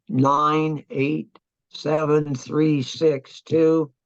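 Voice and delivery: each digit read out slowly and deliberately; measured slow read of coordinates; slow dictation. Retold or imitated. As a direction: spell the grid numbers out one at a time for the radio man. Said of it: "because I would tell him".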